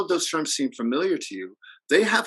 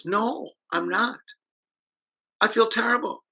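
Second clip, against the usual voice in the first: imitating a crying girl; 9 semitones higher than usual. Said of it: "And she's crying".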